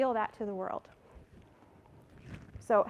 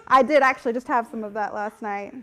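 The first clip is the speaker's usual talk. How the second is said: laughing; 11 dB louder than usual. Real, not acted. Laughing confession.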